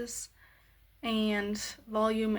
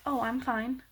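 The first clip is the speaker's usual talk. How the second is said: happy tone; 2 semitones higher than usual. Shown as a demonstration. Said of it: "If you say it in a happy tone".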